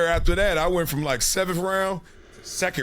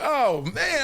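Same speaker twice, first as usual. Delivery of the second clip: excited shout; 9 semitones higher than usual. Real, not acted. Drafted player reacting to his pick, excited shout. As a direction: let it explode out of you.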